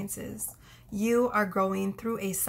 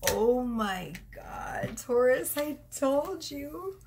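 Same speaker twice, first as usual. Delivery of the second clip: excited; 4 semitones higher, slower than usual. Real, not acted. Reading confirms her prediction.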